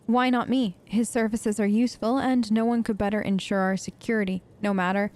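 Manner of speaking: measured, even read-aloud delivery; reading a note aloud. Acted. Streamer reading a found letter to viewers, even read-aloud voice. Reads a game journal aloud.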